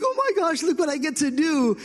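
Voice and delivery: put-on thrilled little boy. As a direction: squeal like a five-year-old on the mower. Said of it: "He's like".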